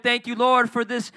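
loud, high, playful thanks over food; mock grateful prayer. Pastor acting his own Thanksgiving prayer, loud and joyful. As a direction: pray over the plate with gusto. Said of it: "be thanking God".

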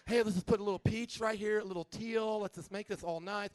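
lightly camp decorator voice; effeminate home remodeler. Acted. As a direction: fuss over the decor, mock effeminate. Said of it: "an effeminate guy who does home remodeling".

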